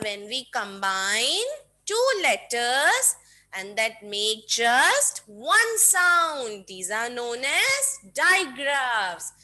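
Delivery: put-on slow, deliberate definition for kids; teaching definition. Shown as a demonstration. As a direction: lay out each word slowly to teach. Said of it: "Digraphs क्या होते हैं".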